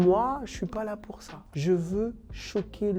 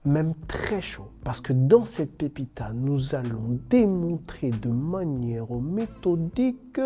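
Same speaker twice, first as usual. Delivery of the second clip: pompous dictator proclamation voice; ranting dictator speech. Acted. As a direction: declaim like a strongman addressing the nation. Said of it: "j'ai pris ma voix de dictateur africain".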